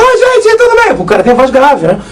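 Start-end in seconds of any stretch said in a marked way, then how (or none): 0.0-0.9 wrong high voice. Shown as a demonstration. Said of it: "você não pode imitar o Cid Moreira falando". (voz bem aguda de propósito, como errar a imitação)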